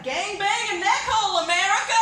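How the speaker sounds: high, loud announcer-style proclamation; mock-triumphant, high-pitched shout; magazine caption. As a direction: proclaim it like a screaming headline. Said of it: "the caption is something like".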